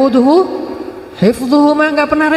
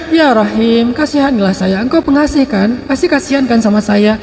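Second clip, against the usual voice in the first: whining plea. Retold or imitated. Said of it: "Ilhah itu artinya merengek".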